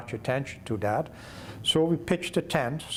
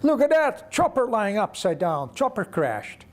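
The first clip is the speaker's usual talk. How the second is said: astonished discovery; 8 semitones higher than usual. Retold or imitated. Pilot discovers the wrecked helicopter, astonished exclaiming. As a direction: cry out high, then come down in pitch.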